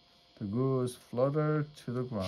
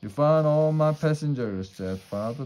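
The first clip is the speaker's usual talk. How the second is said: firm father; 4 semitones higher, 5 dB louder than usual. Acted. Father orders son, urgent.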